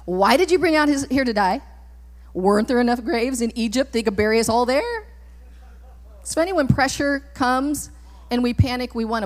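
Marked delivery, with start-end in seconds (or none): 0.0-5.0 sarcasm. Acted. Israelites complain to Moses in the wilderness, mildly sarcastic. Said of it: "look at the sarcasm".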